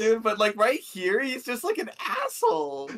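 talking through laughter, high-pitched; laughing. Real, not acted. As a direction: squeal it out through helpless real laughter. Cracking up at the character.

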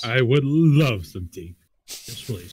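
put-on slow drunken slur; drunk slurred. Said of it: "in a drunkenly slurred voice".

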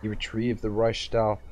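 steady dramatic reading of a fantasy novel; story narration. A narrator's reading. Streamer reading a novel chapter to viewers, narrating. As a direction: read the chapter aloud like an audiobook.

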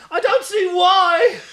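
loud, high, slow angry yell breaking into laughter; angry shout; snapped. Acted. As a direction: snap at Stark in frustration. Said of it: "Jewel snapped".

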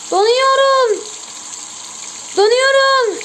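high, shivery freezing moan; shivering cold voice. Real, not acted. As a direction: shiver through the words. Hand in ice water. (titreyerek, donuyormuş gibi)

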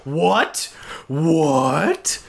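ordinary talk, nothing marked

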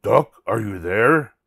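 calling out. Acted. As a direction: call to someone behind a door. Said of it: "called Wolf".

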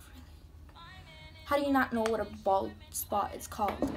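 flat, unimpressed "Really?"; deadpan sarcasm. Retold or imitated. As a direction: let the disbelief drop flat. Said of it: "And I'm just like".

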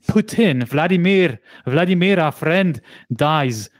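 slight mock Indian accent on Russian names. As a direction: slip lightly into an Indian accent for "Vladimir". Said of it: "I use an Indian accent for this Russian".

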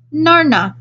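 put-on "Narna" chirped high by a small child; "Narna" as a delighted toddler's half-word for banana; high, happy baby-talk "Narna". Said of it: "he said happily".

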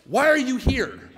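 loud, high, drawn-out demand; challenging nurse. Acted. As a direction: play a nurse demanding an explanation.

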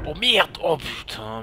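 loud, high burst of dismay; startled swearing. Real, not acted. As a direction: curse out loud in sudden shock. Accident soudain. (juron crié, paniqué)

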